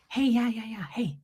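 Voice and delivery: lightly imitated hesitant doctor; mock awkward opener from a doctor; doctor impersonation. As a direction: stall with little repeated greetings like the doctor. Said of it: "impersonate exactly how he did this conversation".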